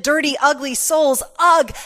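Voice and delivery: loud, exaggerated "ugh" of disdain; disgusted groan, put on; mock disgust. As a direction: recoil from those beneath you, hammed-up. Mock disdain for dirty, ugly souls.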